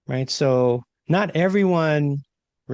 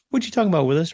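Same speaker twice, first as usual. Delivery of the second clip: higher, mock-incredulous catchphrase; incredulous quote; 6 semitones higher, much faster than usual. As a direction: toss off the old sitcom line in disbelief. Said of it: "I'm like".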